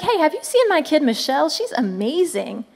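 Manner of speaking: a light voicing of a bragging proud dad; lightly voiced proud parent; proud father God. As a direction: boast about your kids to a friend. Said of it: "He's like".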